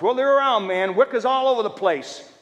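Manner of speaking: high, loud warning; worried listener. Retold or imitated. A believer warning the preacher about Wicca, loud. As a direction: warn like a nervous believer.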